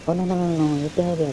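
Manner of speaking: high-pitched playful "oh no"; mock dismay. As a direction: react with pretend alarm to a mishap. Toy truck suddenly stuck in pit.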